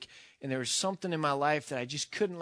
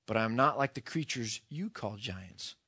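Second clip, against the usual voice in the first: a hint of a large voice, pitched down; lightly voiced large presence, lower than usual; 4 semitones lower than usual. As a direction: carry on low as the unseen being. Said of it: "said the large voice".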